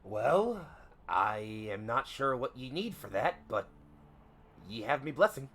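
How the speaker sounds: slow, piratical captain voice; drawn-out captain's reply with pauses; ship's captain. Acted. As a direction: grant permission slowly as a seafaring captain. Captain gives the passenger permission.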